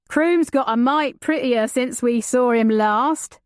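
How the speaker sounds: a hint of a cheeky young rogue; leering young man. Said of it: "said a second young man".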